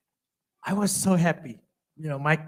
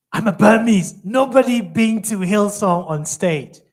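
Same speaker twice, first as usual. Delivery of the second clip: 1 retold protest; 6 semitones higher, 9 dB louder than usual. Retelling his fearful protest to girlfriend.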